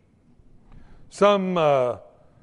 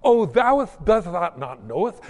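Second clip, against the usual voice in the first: lightly hammed-up pompous old English, a bit louder; mock archaic prayer; 4 dB louder than usual. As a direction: parody someone showing off to God. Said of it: "use words that you don't really even understand".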